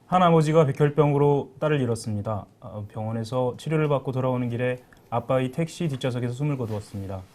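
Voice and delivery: grave, weighty announcer read; solemn narration. Acted. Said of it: "장엄한 목소리로 해달라는데?".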